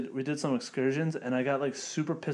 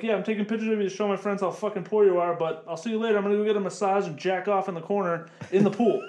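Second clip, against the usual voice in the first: mock tourist; 5 semitones higher than usual. Friend mocks a smug tourist snapping poor people, sneering. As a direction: play a smug tourist waving goodbye. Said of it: "Be like".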